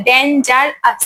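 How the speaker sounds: "ডেঞ্জারাস" in three detached beats; syllable by syllable. Shown as a demonstration. Teacher showing three lip movements, "ডেঞ্জারাস" split into syllables. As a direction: sound out "ডেঞ্জারাস" piece by piece. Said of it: "তিনবার নড়ছে".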